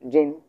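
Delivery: জিন drawn out in the first tone; teacher's model of জিন in first tone. Shown as a demonstration. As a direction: say জিন clearly as a first-tone syllable. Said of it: "সেটা হচ্ছে first tone".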